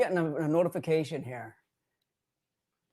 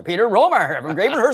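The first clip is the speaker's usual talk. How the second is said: announcer voice; 5 semitones higher, 7 dB louder than usual. Pretend. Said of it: "I sound like an announcer".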